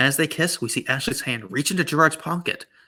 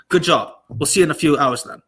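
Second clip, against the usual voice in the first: put-on Australian accent. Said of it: "That's spot on".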